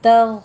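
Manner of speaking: thin त, full ग in तग; tajweed demo. Shown as a demonstration. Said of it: "गैन को पुर करना है".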